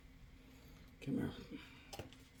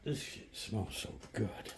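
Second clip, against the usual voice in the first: whisper; 7 dB quieter, slower than usual. Real, not acted. Savoring food smell.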